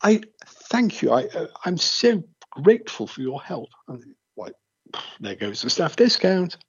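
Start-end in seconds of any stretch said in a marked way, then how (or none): 0.0-3.7 a lightly hammed-up English accent, high and gushing; imitating a gushing English shopper, pitched up; overdone English politeness. Imitating an Englishman charming a store clerk, mock gushing. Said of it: "Because you say".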